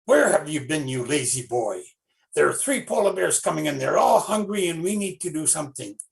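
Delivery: loud, fast scolding rush; mean man frantic about the bears; urgent scolding. Acted. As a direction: scold him and hurry.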